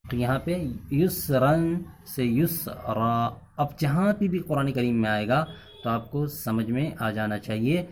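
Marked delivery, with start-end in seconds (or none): 1.0-3.3 یسرن with nunation, then یسرا stretched slowly; pausal form demo. Shown as a demonstration. Teacher shows the rule applied to the verse. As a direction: contrast یسرن and a drawn-out یسرا. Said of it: "ایک الف کی مقدار اس کو کھینچا جاتا ہے".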